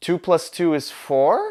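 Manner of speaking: four lifted with rising, question-like upspeak tune. Advising to end sentences as sentences, say the sum with rising question intonation on four. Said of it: "You don't want to sound like".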